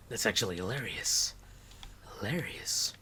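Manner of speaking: unvoiced, breathy whispered echo. Real, not acted. Repeating a friend's word, softly whispered. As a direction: drop it to a whisper.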